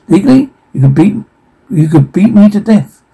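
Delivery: high, fast heated protest. Acted. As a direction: push the point hard. Heated argument about slavery.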